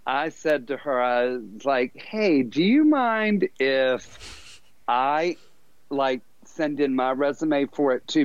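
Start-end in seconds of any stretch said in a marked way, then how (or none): 2.0-8.2 sheepish asking. Retold or imitated. Asking friend about the job.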